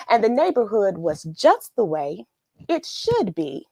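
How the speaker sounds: put-on lilting read-aloud for children; storybook reading. Teacher reading The Belonging Tree to viewers, lilting. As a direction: tell it like a bedtime story to little ones. Reads the picture book aloud.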